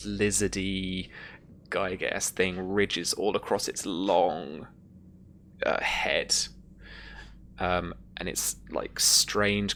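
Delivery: slow, deliberate creature description; measured scene-setting with lingering pauses; game master narration. Acted. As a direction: unveil the monster slowly, piece by piece.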